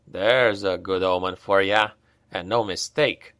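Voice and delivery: low, muttered soldier's grumble; grumbling Hals. Acted. Hals grumbling at the rain, lightly voiced low mutter. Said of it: "Hals grumbled under his breath".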